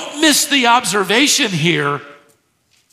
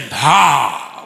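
low, scornful ha; derisive ha; 6 semitones lower than usual. Shown as a demonstration. Pastor voicing the demon's derisive ha. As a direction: scoff at him like a demon. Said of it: "It's a form of derision".

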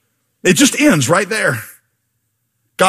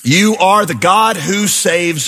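impassioned scripture reading; 4 semitones higher, slower than usual. Acted. Preacher reading the psalm to the congregation, pleading and fervent. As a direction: pray it aloud like a desperate plea.

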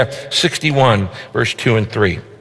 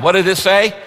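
normal talking voice

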